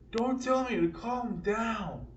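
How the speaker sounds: mock indignant comeback. Retells his own angry comeback.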